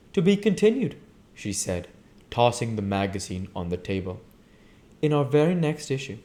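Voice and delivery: a hint of a cool, amused young woman; Jordan teasing. Jordan breaks off reading to Tom, lightly teasing.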